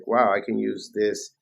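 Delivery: ordinary talk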